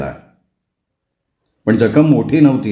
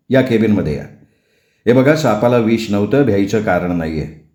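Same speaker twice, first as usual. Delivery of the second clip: lower, steady reassuring doctor; lightly voiced doctor, lower; calm doctor; 4 semitones lower than usual. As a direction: settle a scared husband.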